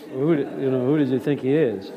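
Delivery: a hint of askance Mitchum disbelief; incredulous Robert Mitchum. Actor imitates Cromwell's one incredulous expression. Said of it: "kind of Robert Mitchum type".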